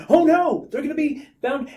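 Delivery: high, loud mock panic; hammed-up dismay at a cliffhanger; mock alarm. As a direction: gasp it in pretend horror. Mock alarm at the story's threat.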